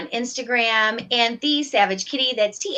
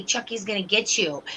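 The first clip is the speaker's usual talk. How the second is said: Chucky voice; 4 dB quieter than usual. Retold or imitated. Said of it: "in her little, like, Chucky voice".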